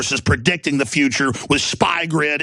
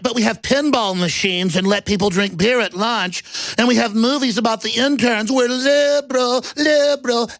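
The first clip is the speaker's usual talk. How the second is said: much higher, climbing to a squeak; mock smug tech bro; 8 semitones higher than usual. Mocking Google boasting about perks, very high and squeaky. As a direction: brag like a silly kid.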